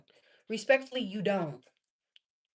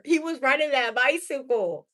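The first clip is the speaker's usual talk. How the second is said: ordinary delivery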